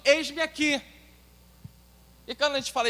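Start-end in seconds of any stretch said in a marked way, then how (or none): 0.0-0.8 willing disciple. Acted. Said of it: "dizendo o seguinte".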